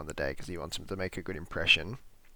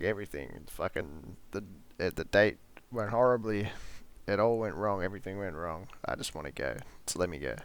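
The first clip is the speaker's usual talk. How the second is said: dejected; 3 dB quieter, faster than usual. Retold or imitated. C quietly tells Sonny his date went badly. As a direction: mumble it like everything went wrong.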